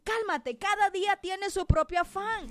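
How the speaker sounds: voice of the Lord. Acted. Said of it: "Dice el Espíritu Santo".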